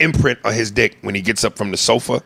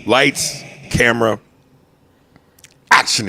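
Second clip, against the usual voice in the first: mock director calling; 2 semitones higher, slower than usual. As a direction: call the set like a director. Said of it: "mock director again".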